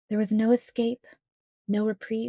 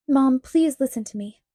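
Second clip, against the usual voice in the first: a touch of pleading, a bit higher and louder on please; 3 semitones higher, 5 dB louder than usual. Acted. Daughter on the phone forced by the kidnapper to plead with her mother, pleading. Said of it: "my voice pleaded".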